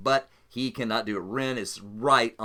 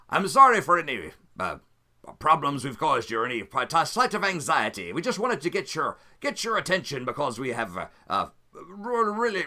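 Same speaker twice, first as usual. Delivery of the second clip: rival captain Ren. Acted. Captain Ren taunting Anselm over the channel, lightly voiced. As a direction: needle the old friend with fake politeness.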